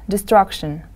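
Destruction with the stress on STRUC; teacher's de-STRUC-tion, second syllable leading. Shown as a demonstration. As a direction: model Destruction for learners, leaning on the middle syllable. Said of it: "The stress is on the second syllable".

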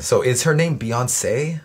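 the singer's name said slowly, stress on the final E; pronunciation question. Shown as a demonstration. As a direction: ask it as the name, drawn out, last syllable stressed. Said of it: "accent on the E at the end".

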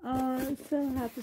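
high, loud happy squeal; real squeal of joy at a doll; excited. Real, not acted. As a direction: gush over the gift. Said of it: "Sorry if I'm loud".

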